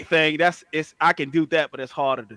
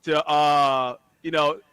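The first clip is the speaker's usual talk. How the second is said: lightly voiced uncle impression. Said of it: "He sound just like Zeddy".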